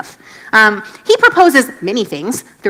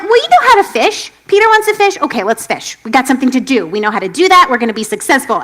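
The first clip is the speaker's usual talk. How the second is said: eager disciples; 5 dB louder than usual. Retold or imitated. Disciples cheering each other on to go fishing, eager. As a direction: talk the crew into it brightly. Disciples voiced agreeing to fish.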